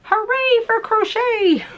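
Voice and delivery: high, slow, sing-song cheer; weird high voice. Acted. Repeating the slogan to viewers in a silly high voice. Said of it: "Do the weird voices help?".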